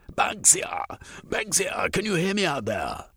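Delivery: high, calling through a doorway. Acted. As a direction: shout for Banksia outside.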